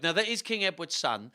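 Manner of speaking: ordinary delivery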